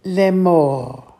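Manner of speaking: slow, measured repeat of the word; unhurried model pronunciation. Shown as a demonstration. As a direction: draw it out slowly for learners. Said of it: "as I say it slowly".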